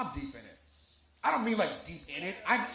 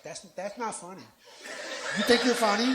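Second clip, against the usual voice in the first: mock offended girl snapping back; Jasmine offended; 3 semitones higher, 4 dB louder than usual. Jasmine offended by his joke, mock indignant rise. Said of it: "She's like".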